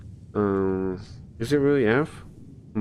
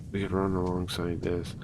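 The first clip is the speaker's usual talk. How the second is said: Snake voice; 2 semitones lower, 7 dB quieter than usual. Shown as a demonstration. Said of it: "I don't know if I could do a snake voice".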